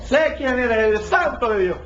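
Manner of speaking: demon's words. Retold or imitated. Quoting the demon aloud.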